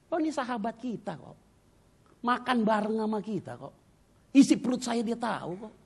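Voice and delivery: high-pitched tearful protest; imitated crying. Wife in prayer over a friend's betrayal, imitated crying protest. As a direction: plead it high, as if weeping. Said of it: "nangis dia".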